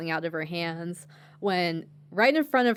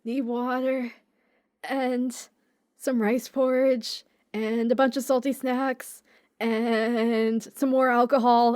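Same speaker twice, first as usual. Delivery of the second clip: put-on drunk lady; 4 semitones higher than usual. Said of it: "she's like".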